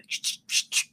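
whispered shushing; husband shushing her during the game. Retold or imitated. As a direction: hush her like the husband did. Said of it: "And my husband".

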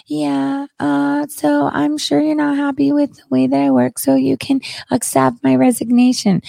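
mock meek resignation. Imitating Barr handing in his resignation meekly. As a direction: whimper it like a cowed man quitting.

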